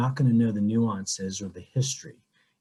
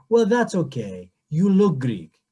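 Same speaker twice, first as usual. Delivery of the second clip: lightly imitated Greek accent; 4 semitones higher, 3 dB louder than usual. Greek woman dismissing the parishioner's answer, lightly imitated Greek accent. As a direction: retell it with a touch of Greek accent. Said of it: "with her beautiful Greek accent".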